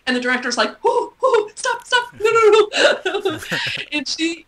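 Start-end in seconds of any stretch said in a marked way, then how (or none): 0.8-3.4 director cutting in. Retold or imitated. Director stopping a shouting child. 3.4-4.4 laughing. Real, not acted. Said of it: "you can tell she's dying".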